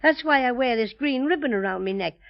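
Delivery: put-on lightly Irish-accented bear; slight Irish accent. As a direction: put on a mild Irish brogue. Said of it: "I'm slightly Irish".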